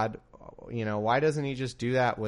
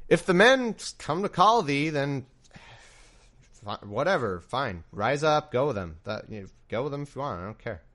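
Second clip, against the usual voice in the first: put-on pissy girlfriend; 3 semitones higher, 3 dB louder than usual. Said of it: "a pissy, like, girlfriend".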